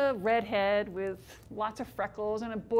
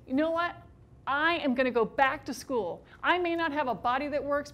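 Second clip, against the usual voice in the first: defiant anger; 2 semitones higher, 4 dB louder than usual. Retold or imitated. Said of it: "I am so shocked and angry".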